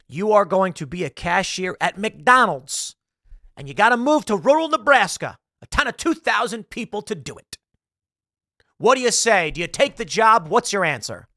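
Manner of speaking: lightly acted emphatic recruiter; man on the phone. Corporate caller pushes John to take the job, mock hard sell. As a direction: press for an answer, playing the caller. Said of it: "a man on the phone says".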